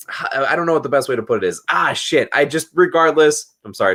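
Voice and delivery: tipsy. Real, not acted. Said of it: "It's 'cause I'm tipsy".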